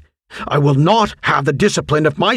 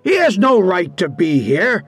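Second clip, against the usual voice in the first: indignant teacher, pitch raised; angry call; 7 semitones higher than usual. A narrator's reading. Teacher objecting to a stranger on school grounds, angry call. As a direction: object crossly, in a higher voice. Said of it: "Clark called angrily".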